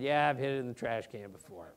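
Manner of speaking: mildly sheepish, quick and low-key; sheepish admission. Retold or imitated. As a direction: imitate a player owning up reluctantly. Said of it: "he very sheepishly said".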